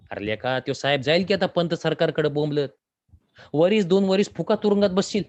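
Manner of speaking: lightly voiced, rising alarm of a villager; a hint of an alarmed old villager; worried villager. Villager scolds Deva.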